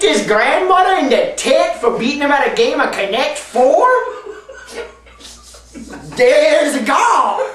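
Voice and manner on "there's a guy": slow, laughing delivery. Acted. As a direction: stretch it out, laughing.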